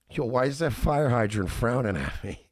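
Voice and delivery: loud enough for the crowd to hear, joking; loud mock question. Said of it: "loud enough that people heard it".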